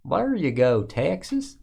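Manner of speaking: hammed-up Texas accent, lifting on "Texas"; mock Texas drawl. Repeating the Texas card call as a joke, mock Texas drawl. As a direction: stretch "Texas" into a playful twang.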